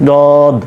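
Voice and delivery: "দদ" with tongue edge on the upper molars, heavy d; heavy Arabic "দদ"; teacher introducing the unique letter; Arabic dad. Shown as a demonstration. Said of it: "তার উচ্চারণ কী হবে?".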